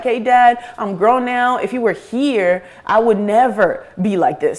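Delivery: earnest retold appeal; appeal to Dad. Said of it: "I catch myself talking to this man".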